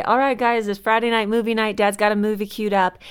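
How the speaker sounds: put-on rally the kids for a treat; upbeat announcement. Parent announcing Friday movie night to the boys, upbeat.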